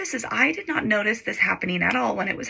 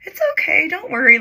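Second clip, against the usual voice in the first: put-on high, insistent "nice boyfriend" voice; retold soothing, pitched well up; imitated reassurance; 10 semitones higher, 5 dB louder than usual. Boyfriend being very nice about it, imitated reassurance. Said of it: "he was being very nice".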